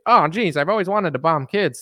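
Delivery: hammed-up delight at getting the job; mock giddy reply. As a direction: lift it into a high, swooping gush. Mock reply from Lindsey Graham.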